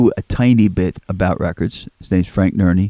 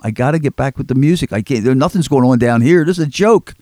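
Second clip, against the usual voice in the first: rising frustration; 4 semitones higher than usual. Retold or imitated. Pleading with mother to leave.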